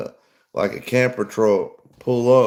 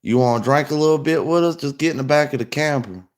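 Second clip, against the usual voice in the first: higher, sing-song coaxing invite; luring stranger; 5 semitones higher, faster than usual. Retold or imitated. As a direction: sweeten it up to lure them in. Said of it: "And it was like".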